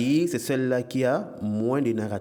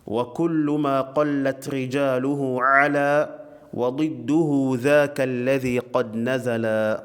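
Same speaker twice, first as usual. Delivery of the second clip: poem recitation; much faster than usual. Acted. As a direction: recite the line of didactic verse evenly. (récitation posée d'un vers arabe)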